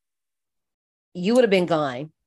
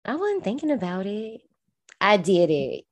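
imitating TikTok sound; 2 semitones higher than usual. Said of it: "It's like that, uh, TikTok".

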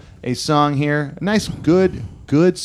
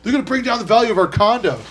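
mock whiny voice; 10 semitones higher, faster than usual. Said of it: "They're like".

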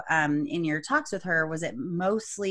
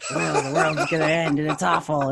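mock gravelly doom voice; gravelly gloom, hammed up. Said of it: "and have, like, a gravelly voice".

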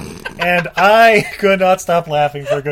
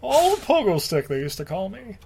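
reminiscing character; 4 semitones higher than usual. Pretend. One-legged star recalls his nickname, mock wistful. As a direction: start high and tail off wistfully.

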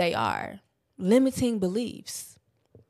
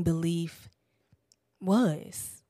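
whisper; 3 semitones lower, 3 dB quieter, much slower than usual. Real, not acted. Ending point in whisper.

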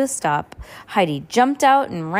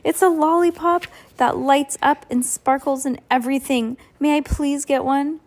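put-on excited girl; 6 semitones higher than usual. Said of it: "said Heidi breathlessly".

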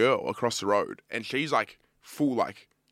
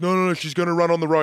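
mock husband protest; 7 semitones higher, 7 dB louder, faster than usual. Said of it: "he's like".

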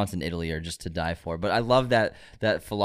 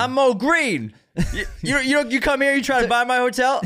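high, loud mobster impression; Mo Green; 5 dB louder than usual. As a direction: play the angry Vegas gangster. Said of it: "Godfather Part Two depicts the mob".

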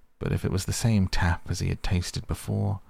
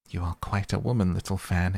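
quick, lifted exclamation; mild delighted exclaim, fast; 2 semitones higher, faster than usual. Acted. Young Scrooge to his sister, a touch of delighted exclaim. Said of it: "exclaimed the boy".

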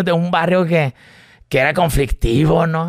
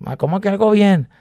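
puzzled; 6 semitones higher than usual. Retold or imitated. His confused reaction.

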